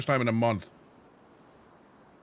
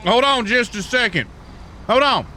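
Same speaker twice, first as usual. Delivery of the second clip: surprised; 6 semitones higher than usual. Real, not acted. Surprised, loud.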